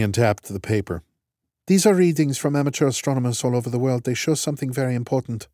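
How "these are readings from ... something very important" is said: lightly raised, brisk no-nonsense commander; clipped and matter-of-fact, in charge; brisk woman's voice. Acted. Strat, brisk and fast.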